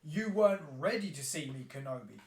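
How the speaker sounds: a lightly voiced stern Qui-Gon taunting; Qui-Gon teasing his pupil, half joking; mock Qui-Gon. Qui-Gon voiced mocking Kenobi.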